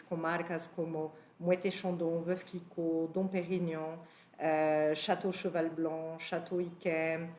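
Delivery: Moët and Chandon said the French way, /mwɛte ʃɑ̃dɔ/; French-accented brand names in a Portuguese talk. Real, not acted. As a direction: give Moët & Chandon, Veuve Clicquot and Chateau Yquem their French sounds inside Portuguese. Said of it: "francesas com esse sotaque francês".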